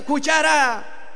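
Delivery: drawn-out call after someone ahead; мок-крик. Acted. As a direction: stretch it out as a mild calling shout. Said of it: "el cuchillo le grita".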